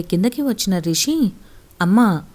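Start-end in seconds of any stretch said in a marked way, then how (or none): 1.8-2.2 shouting. Acted. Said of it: "గట్టిగా అరుస్తూ".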